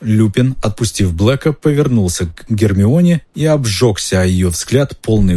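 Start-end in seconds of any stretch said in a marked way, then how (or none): none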